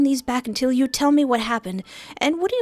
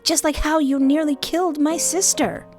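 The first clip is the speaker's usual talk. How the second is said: high-pitched, bitter comeback; accusing retort; 9 semitones higher, 3 dB louder than usual. Acted. Fia retorts to Quill about her sister, high and accusing. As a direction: throw the accusation back, pitched up.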